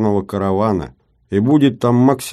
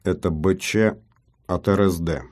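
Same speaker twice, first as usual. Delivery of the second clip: unnatural metallic robot voice. Acted. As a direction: stiff mechanical robot delivery. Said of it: "неестественным каким-то металлическим голосом". (неестественный металлический голос)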